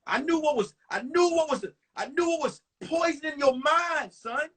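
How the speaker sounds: mock the father's knowing lecture. Dad lecturing his son about the girl, lightly voiced. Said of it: "He said".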